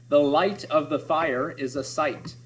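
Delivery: slow, stretching each long I; drawn-out vowels. Shown as a demonstration. Teacher reading the assonance line slowly to the class. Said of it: "Notice that I sound".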